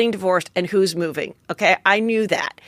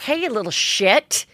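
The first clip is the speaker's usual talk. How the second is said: higher, faster exasperated rant; venting at kid; 6 semitones higher than usual. Retold or imitated. Mom fed up with her kid, exasperated rant. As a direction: let the frustration spill out fast. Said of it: "what you wanna say to your kid".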